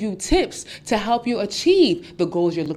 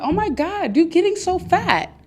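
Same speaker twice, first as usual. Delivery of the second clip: much higher and louder, faux-concerned gasp; mock fake shock; 11 semitones higher, 4 dB louder than usual. Frenemy feigning shock at a friend's weight, high and loud. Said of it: "make you feel insecure".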